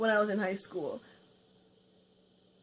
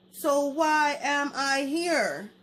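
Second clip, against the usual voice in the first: slow, louder and higher, each word hit; slow, louder and higher outrage; exasperated; 4 semitones higher, 5 dB louder, much slower than usual. Retold or imitated. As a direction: demand it in disbelief. Venting anger at boyfriend.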